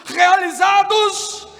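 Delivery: high, shouted sermon, held at a peak; full-force preaching. Real, not acted. Preacher tells congregation God must break them, full-force preaching. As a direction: thunder it out, stretching the key words.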